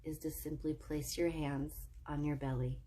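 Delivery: calm, measured meditation voice with long pauses; soothing breathing-exercise lead, lingering between phrases; guided meditation. Real, not acted. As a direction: guide them gently into relaxation, phrase by phrase.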